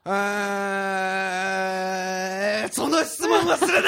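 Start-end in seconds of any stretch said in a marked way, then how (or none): 2.7-3.9 mock outraged shout. Refusing the question, laughing.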